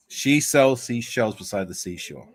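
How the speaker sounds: slow, careful attempt at an American accent. Shown as a demonstration. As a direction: put on your best American accent, slowly. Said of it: "best American accent".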